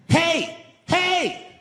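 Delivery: high, loud crowd shout; fans yelling catchphrase. Retold or imitated. Park visitors shouting his catchphrase at him, high and loud. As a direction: holler it across the park at him.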